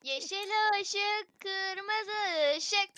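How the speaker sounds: slow, drawn-out game chant; oyun komutu. Pretend. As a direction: drag each word out as the caller. Calling the game's command. (uzata uzata söylenen oyun tekerlemesi)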